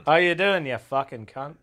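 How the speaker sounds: lightly mocked Australian greeting; Australian accent impression. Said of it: "don't do an impression of my accent".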